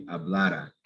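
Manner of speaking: "hablara" stressed on the middle a; stress on second-to-last syllable. Shown as a demonstration. Teacher shows students where the stress goes, "hablara" stressed on "la". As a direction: say "hablara" leaning on the "la". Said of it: "pronounce these the right way".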